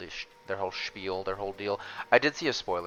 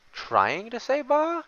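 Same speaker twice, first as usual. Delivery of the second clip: bleating laugh; 6 dB louder, slower than usual. Pretend. Echoing the sheep in disbelief.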